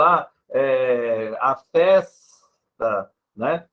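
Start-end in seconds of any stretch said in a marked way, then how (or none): 1.4-3.1 FESTA very slow, the S held long before "ta"; modelled S. Shown as a demonstration. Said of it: "você pode dar modelo". ("festa" bem devagar, com o S prolongado)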